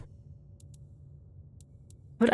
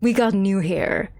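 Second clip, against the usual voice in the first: mocking the company; 3 semitones higher, slower than usual. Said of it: "'cause you're like".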